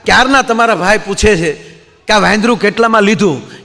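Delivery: annoyed wife. Retold or imitated. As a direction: snap at him for ignoring her husband. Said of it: "બેન ખીજાઈને બોલ્યા".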